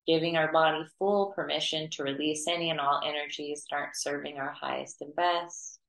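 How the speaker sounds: even, unhurried meditation voice with long pauses; guided meditation. Acted. Teacher leading students to clear their auras, guided meditation. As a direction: guide them gently through it, pitch held level.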